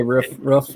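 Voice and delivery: "roof" short, like a dog's "ruff". Shown as a demonstration. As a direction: say "roof" like a little bark. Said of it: "like the, a dog".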